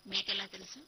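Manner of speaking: wife surprised on the phone. A narrator's reading. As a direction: caught off guard, asking sharply. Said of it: "ఆశ్చర్యంగా అడిగాను".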